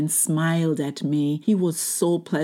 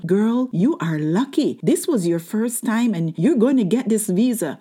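higher-pitched, animated well-wisher; excited congratulation; 5 semitones higher, 4 dB louder than usual. Retold or imitated. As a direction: imitate thrilled bystanders, drawing out the opening words. Bystanders congratulating her, acted out.

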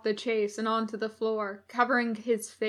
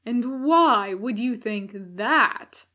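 slow, louder scornful challenge; mocking sneer; 6 dB louder, slower than usual. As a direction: sneer down at him. Villain mocks captive.

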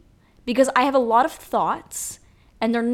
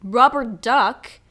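louder, higher newsreader announcing it; mock news anchor; 3 semitones higher, 4 dB louder than usual. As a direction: play a TV anchor breaking the story. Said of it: "people would be like".

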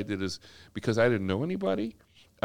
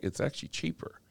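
whisper; 6 semitones higher, 5 dB quieter than usual. Retold or imitated. Realtor confides the double house costs less.

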